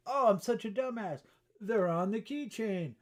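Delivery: high, loud exasperated cry, slowing down; self-mocking outburst. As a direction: play up the silly realisation. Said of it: "And you go".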